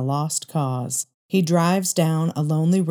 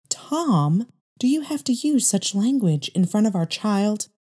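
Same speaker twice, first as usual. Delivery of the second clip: higher wife's voice, reproachful; wife pleading; 5 semitones higher than usual. Acted. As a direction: plead with him about his language. Wife objects to his language.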